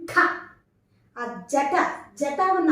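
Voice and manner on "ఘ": ఘ with a strong puff of breath; aspirated sound. Shown as a demonstration. Teacher showing pupils the mahaprana letter, ఘ heavily aspirated. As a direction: push breath through the ఘ. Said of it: "మహాప్రాణంతో పలకాలి".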